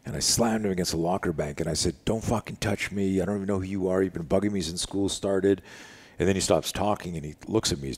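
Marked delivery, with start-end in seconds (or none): 2.0-5.6 retold angry confrontation. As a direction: act out telling off a bully. Retold locker confrontation with bully.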